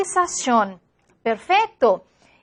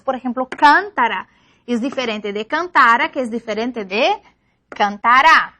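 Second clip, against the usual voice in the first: teacher demo of shifting stress in cántara, cantara and cantará; 3 semitones lower than usual. Shown as a demonstration. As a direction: contrast cántara, cantara and cantará by moving the stress from first to middle to final syllable. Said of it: "en la diferencia de sílabas acentuadas".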